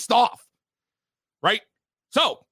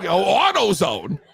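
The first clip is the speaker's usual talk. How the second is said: usual speaking voice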